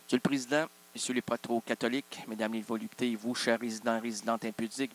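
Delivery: solemn emcee opening, dropped low and soft; mock host welcome. Restarts the show intro.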